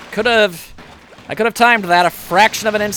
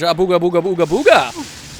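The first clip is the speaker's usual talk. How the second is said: spooky voice. Retold or imitated. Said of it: "the scary voice says".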